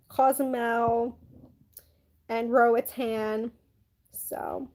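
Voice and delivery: slow words through a yawn; yawning while talking. Real, not acted. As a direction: yawn mid-sentence, stretch it out. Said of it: "yawning while talking".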